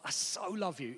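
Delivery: soft so love. Shown as a demonstration. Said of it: "that word so is really emotive".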